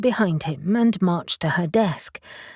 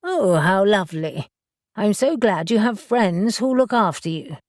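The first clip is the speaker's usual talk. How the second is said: beaming. Acted. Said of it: "she beamed".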